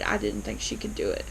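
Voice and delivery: breathy whisper, half to herself; a confiding whisper about the suspect; whispered aside. Real, not acted. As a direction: let it drop to a private whisper. Confiding her own doubt.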